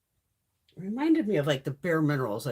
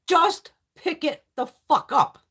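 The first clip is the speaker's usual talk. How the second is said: mock yell; 7 semitones higher, 6 dB louder, slower than usual. Yelling advice at scared men.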